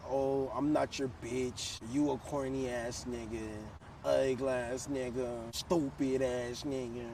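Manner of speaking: slow, drawn-out string of insults, mildly voiced; slow mock insult list. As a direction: spell out each insult slowly, mocking her. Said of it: "she's like".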